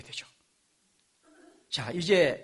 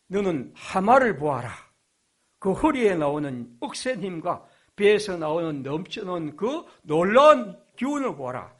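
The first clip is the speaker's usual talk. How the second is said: voicing God; 5 dB louder than usual. God shows Job the hippo.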